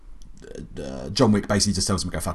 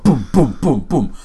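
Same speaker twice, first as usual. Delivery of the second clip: punchy, louder boom after boom; imitated gunshots; 4 semitones higher, 6 dB louder, slower than usual. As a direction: fire off each boom like a headshot. Imitates repeated headshots.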